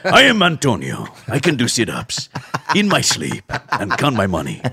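Antonio Banderas impression. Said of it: "it was him in the booth, like".

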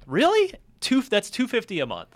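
high, loud incredulous "really?"; can't believe it's that cheap; surprised disbelief. Real, not acted. Disbelief at a low price.

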